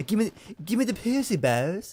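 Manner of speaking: put-on very high, squeaky cartoon boy voice, slow. Trying to recall what Filthy Frank says, do a bad Filthy Frank voice, Cartman-like. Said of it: "Sounds like Cartman".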